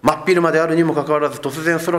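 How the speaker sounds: 真っ昼 pushed fast with rising urgency; urgent emphasis. Shown as a demonstration. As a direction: hurry through it as if alarmed. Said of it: "とんでもない天変地異が起こってるんですよ".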